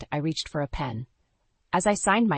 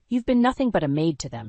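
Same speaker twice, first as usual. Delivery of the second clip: a touch of anger, a little louder; angry; 3 dB louder than usual. Acted. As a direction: let the anger show lightly on "maid". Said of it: "her voice laced with anger".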